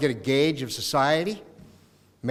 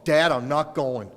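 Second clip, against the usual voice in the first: put-on slow, flat teen refusal; daughter refusing; slower than usual. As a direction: drag it out like a bored kid.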